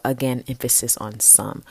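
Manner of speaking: "some" picked out as a caveat; stress on some. Real, not acted. Host hedging on basketball coverage, stress on "some". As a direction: lean on "some" at the end.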